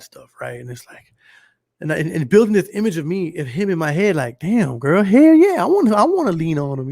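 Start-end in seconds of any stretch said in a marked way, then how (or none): 4.4-6.9 high, loud burst of mock enthusiasm; hammed-up excitement. Reacting to a homegirl's talk about him, hammed-up eagerness. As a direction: play it eager, leaping up high on "hell yeah".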